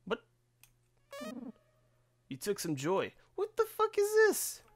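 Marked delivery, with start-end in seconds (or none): 3.4-4.6 very high, loud disbelief; real high-pitched startled exclamation; shocked outburst. Real, not acted. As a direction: squeal it in sudden shock. Shocked reaction to the game.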